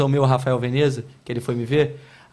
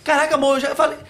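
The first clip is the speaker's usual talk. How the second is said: high-pitched mock complaint; whiny nagging, pitched up; exasperated high voice; 9 semitones higher than usual. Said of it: "eu falo assim".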